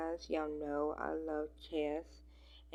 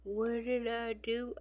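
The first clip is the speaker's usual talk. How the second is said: innocent cat face; 7 semitones higher than usual. Retold or imitated. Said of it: "he gives me the eyes".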